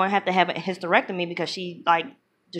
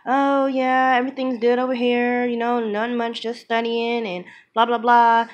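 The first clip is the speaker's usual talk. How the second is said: mildly higher, breezy just-a-friend tone; casual, friendly brush-off; 5 semitones higher than usual. Retold or imitated. Cheating boyfriend on the phone to his girlfriend, casual and chummy. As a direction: play it casual, like talking to a mere friend. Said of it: "talking to her like she's just his friend".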